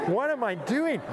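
high, laughing what-am-I-doing; laughing panic. Retold or imitated. Telling the crowd about his panic, laughing high.

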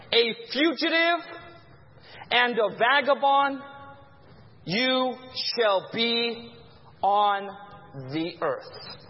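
drawn out and fading low to the end; solemn slow sentence from God; slow solemn curse. Shown as a demonstration. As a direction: pronounce the curse slowly, sinking away. Preacher reading the curse slowly.

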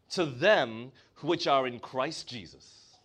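usual speaking voice

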